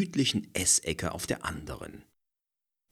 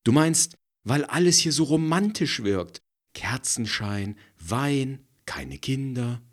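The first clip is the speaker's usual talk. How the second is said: teasing woman; 8 semitones higher, 4 dB louder than usual. A narrator's reading. Frederike voiced by the narrator.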